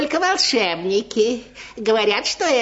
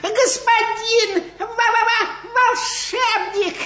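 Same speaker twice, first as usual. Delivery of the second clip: frightened pleading; 7 semitones higher than usual. Acted. Cat begging wizard to change back.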